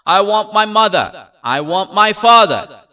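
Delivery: high, loud wailing; weeping cry. A narrator's reading. Lost child wails to the kind stranger, weeping. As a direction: wail it through tears. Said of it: "reiterated his sob".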